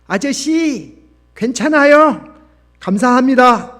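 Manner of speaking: put-on high, loud young girl's call; angelic schoolgirl. A narrator's reading. Schoolgirl calling after the man running away, angelic girl's voice. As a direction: call out high, as a child to someone far off. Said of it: "천사의 목소리가 들려왔습니다".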